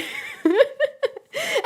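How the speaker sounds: high, helpless giggle; real high-pitched laughing fit. Real, not acted. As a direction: crack up in a high squeal. Streamer cracks up at the reveal.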